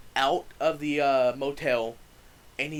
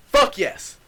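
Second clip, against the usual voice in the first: a much higher, louder fuck yes; relieved cheer; 10 semitones higher, 8 dB louder than usual. Retold or imitated. Teller hearing the cops arrive, relieved excited cheer. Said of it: "And I'm like".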